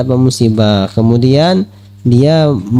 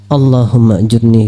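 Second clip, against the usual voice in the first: recited prayer; 6 semitones lower than usual. Shown as a demonstration. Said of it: "yang keluar".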